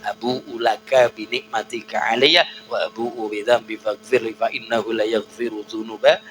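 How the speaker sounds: usual speaking voice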